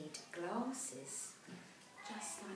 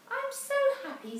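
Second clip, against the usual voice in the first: overjoyed; 14 dB louder than usual. Acted. Cassie overjoyed at the end.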